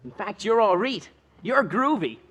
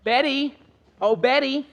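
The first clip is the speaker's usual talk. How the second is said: calling out; 4 semitones higher than usual. Acted. Calling out to a passing girl.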